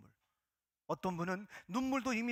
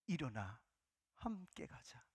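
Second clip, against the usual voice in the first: soft, low tender whisper; hushed voice of Jesus; 8 semitones lower, 11 dB quieter, slower than usual. Acted. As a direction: speak it gently, almost breathed. The Lord speaks to the congregation. (나지막이 속삭이는 예수님의 음성)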